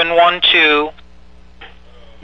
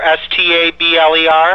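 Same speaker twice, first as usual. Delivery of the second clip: spelling it out. Real, not acted. Confirming a name letter by letter.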